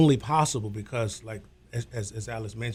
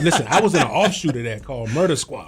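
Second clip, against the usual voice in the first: laughing confession; 4 dB louder than usual. Real, not acted. Admitting embarrassing past, laughing.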